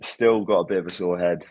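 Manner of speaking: groggy, hoarse morning-after voice; rough croaky throat after celebrating. Real, not acted. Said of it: "groggy voice".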